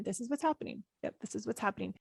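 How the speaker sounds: quiet, calm self-talk; soft mantra. Shown as a demonstration. Coach repeating her calming mantra, softly. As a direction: murmur it to yourself, accepting. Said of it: "I sometimes just say that over".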